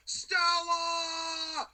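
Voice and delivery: loud, high drawn-out wail; screamed impression. Podcaster imitating a wrestler screaming out to his ally, drawn-out yell. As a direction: bellow the name, stretching it out in mock anguish. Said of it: "M J F screaming out to Wardlow".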